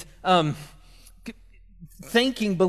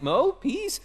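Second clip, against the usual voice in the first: put-on a light high baby voice asking for more; toddler voice; 8 semitones higher than usual. Dad imitating his toddler son at dinner, lightly high. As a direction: mimic a hungry little boy asking sweetly. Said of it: "he's like".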